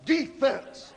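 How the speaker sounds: hammed-up cheering shout of Defense; mock crowd chant from the bleachers. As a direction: chant it like a fan in the stands. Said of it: "You're down there going".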